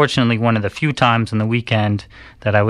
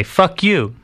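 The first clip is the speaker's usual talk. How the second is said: retold angry retort; 8 semitones higher than usual. Retelling own retort in street fight.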